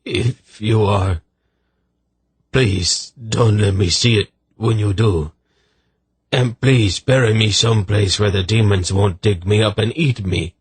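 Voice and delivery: halting, anxious begging; pleading frightened soldier. Acted. Soldier begging the lady for burial, fearful. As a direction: beg for one last mercy. Soldier begs about his death.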